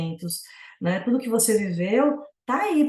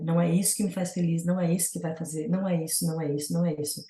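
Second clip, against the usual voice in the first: quick muttered mantra; 3 semitones lower, 3 dB quieter, faster than usual. Shown as a demonstration. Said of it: "Tem até um mantra".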